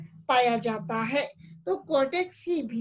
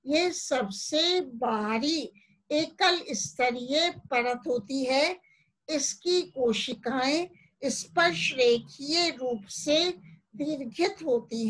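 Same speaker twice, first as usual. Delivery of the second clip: slow, measured teacher's delivery; spaced-out, unhurried explaining; slow dictation. Real, not acted. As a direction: say it slowly so students can follow. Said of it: "इसको धीरे धीरे बोलूंगी".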